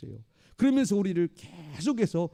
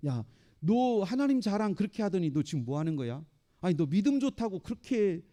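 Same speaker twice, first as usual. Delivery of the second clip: mocking. Devil taunting a believer who bragged about God, mocking. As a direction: taunt with sarcastic praise. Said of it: "이게 조롱하는 조롱".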